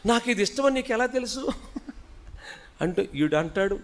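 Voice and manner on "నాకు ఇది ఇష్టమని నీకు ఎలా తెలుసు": high, laughing mock delight; mock gushing girl. Pastor mocking a girl's gift reaction with a laugh. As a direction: lampoon her sweet surprise through a laugh.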